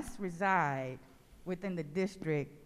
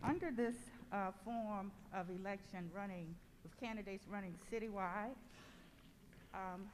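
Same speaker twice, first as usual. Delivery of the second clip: muffled, quiet and distant; 9 dB quieter than usual. Real, not acted. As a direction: speak as if through a hand over the mouth. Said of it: "you're a little muffled".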